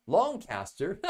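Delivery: Longcaster said the British way, Longcaster with a British lilt; British accent. Shown as a demonstration. Reviewer slipping into a British accent on Longcaster. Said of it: "Slipped into my British accent".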